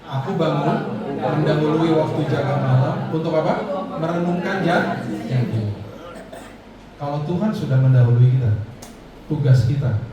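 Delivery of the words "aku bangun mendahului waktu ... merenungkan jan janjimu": reading aloud together. Shown as a demonstration. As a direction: lead the congregation in reading. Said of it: "kita baca yang keras ya".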